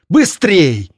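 high urgent shout. Acted. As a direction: hurry her with a cry. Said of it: "Серая прокричала".

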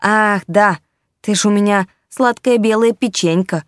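teasing sarcastic kitten. Acted. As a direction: needle him with mock sweetness. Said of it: "съязвил котёнок".

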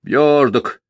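whiny high mimic of a boy; mock the boy's whimper; mocking mimicry. A narrator's reading. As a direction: drunk mimicking a sniveling boy. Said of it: "передразнил Петр".

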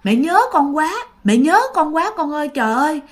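a touch of tearful pleading, pitch rising; lightly voiced grieving mother; mother crying. Mother at the séance, tearfully calling her dead son. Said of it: "bà khóc quá trời".

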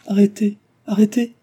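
high, loud cry to stop; urgent interruption. A narrator's reading. Cécile stops Delville recalling her words, urgent cry.

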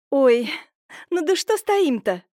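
flustered, busy fussing. A narrator's reading. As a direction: hurry everyone along with fuss. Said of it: "засуетилась Семёновна".

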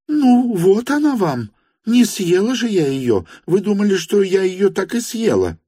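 agitated exclamation. Acted. Frantic lady presenting the woman.

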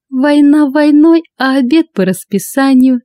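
high loud mocking laugh through the words; hammed-up drunken laughter; laughing drunkenly. A narrator's reading. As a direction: cackle it out like a tipsy joker. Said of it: "захохотала Лада".

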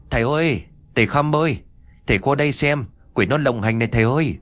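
high, loud call from the gate. A narrator's reading. Villager at the gate calling for the master, loud high call. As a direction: shout for the master from outside. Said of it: "có tiếng hô lớn".

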